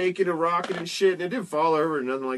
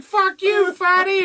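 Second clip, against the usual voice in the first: pizza man yelling; 8 dB louder, slower than usual. Retold or imitated. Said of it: "he was like".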